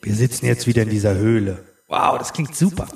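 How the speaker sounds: echoing like in a cave. Real, not acted. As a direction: speak into a cavern echo. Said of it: "Können wir das Echo noch mal kurz haben". (Höhlenecho)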